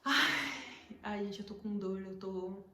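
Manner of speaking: breathless and in pain; gasping for air between words; out of breath. Real, not acted. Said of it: "tô sem ar". (sem fôlego, com dor)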